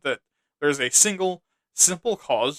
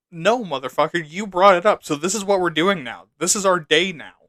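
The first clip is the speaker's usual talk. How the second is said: louder, heated comeback; angry retort; 3 semitones higher, 4 dB louder than usual. Acted. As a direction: snap back at him, building up heat. Retorting to an imagined racist.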